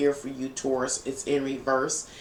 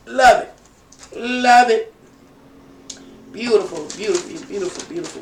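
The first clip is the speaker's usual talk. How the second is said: high, loud burst of delight; really love it, shout it out; excited outburst; 5 semitones higher, 8 dB louder than usual. Real, not acted. Reacting joyfully to the reading.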